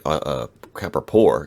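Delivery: groggy, slow hungover voice. Real, not acted. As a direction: sluggish and hungover, fumbling words. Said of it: "Sorry, I'm hungover".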